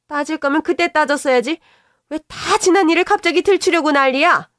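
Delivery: an indignant mother defending her son; scolding mother-in-law. Acted. Mother-in-law scolding daughter-in-law for accusing her son, indignant.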